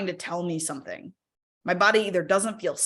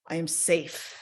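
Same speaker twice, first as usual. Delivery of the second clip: calm affirmation; 3 dB quieter, slower than usual. Shown as a demonstration. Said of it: "I just tell myself".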